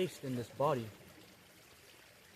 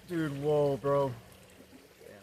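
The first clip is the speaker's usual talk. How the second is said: loud, amazed exclamation after the rush; 7 dB louder, much slower than usual. Real, not acted. Coming out of breath work, loudly amazed. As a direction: blurt it out in real wonder.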